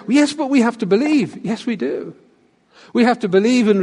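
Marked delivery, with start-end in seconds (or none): 0.1-1.4 higher-pitched listener's objection; imagined objection. Retold or imitated. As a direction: voice a mild protest from the congregation. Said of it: "but you'll say".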